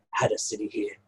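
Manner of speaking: goblin drops to a whisper; whispered aside. Acted. Goblin Cass whispering an aside to the party. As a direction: hush the last words like a secret.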